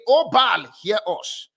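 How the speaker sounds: loud, drawn-out cry to Baal; pleading prophets calling on Baal. Retold or imitated. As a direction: call out slowly to a distant god.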